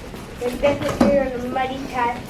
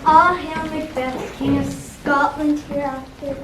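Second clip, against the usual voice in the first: prophesying witch; 2 semitones higher, 5 dB louder, slower than usual. Acted.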